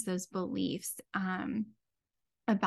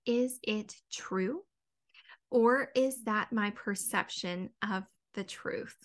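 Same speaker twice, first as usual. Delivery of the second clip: slow self-questioning; slower than usual. Shown as a demonstration. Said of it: "ask yourself".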